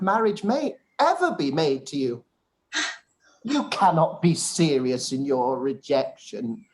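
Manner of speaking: pompous insistence. Acted. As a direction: insist as though refusal were unthinkable. Collins pressing rejected proposal.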